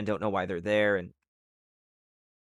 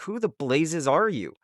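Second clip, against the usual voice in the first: mildly acted bewilderment, higher and drawn out; slow, higher-pitched mock confusion; confused demand; 5 semitones higher than usual. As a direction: act out a baffled hero, lightly. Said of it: "Everybody's confused".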